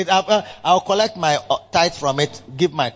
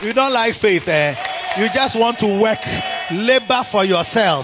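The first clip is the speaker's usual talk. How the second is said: shouted rebuke; 3 semitones higher than usual. Real, not acted.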